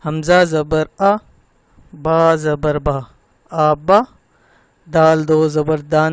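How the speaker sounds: loud, slow spelling drill, long held ن on دن; correct slow spelling-out. Shown as a demonstration. Teacher demonstrates right reading, slow and loud, دن held long. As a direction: spell each letter slowly and firmly, stretching final دن. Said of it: "ٹھیک کیسے پڑھنا ہے اب وہ سنیں".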